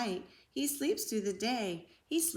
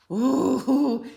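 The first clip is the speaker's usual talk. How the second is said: loud drawn-out ooh; ooh of alarm; 4 semitones higher, 10 dB louder than usual. A narrator's reading. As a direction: gasp at the angry bear. Reacts to angry bear.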